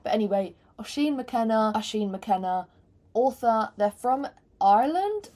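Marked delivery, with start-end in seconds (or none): 3.8-5.3 slipping into an Irish lilt; accidental Irish accent. Real, not acted. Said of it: "start speaking an Australian accent".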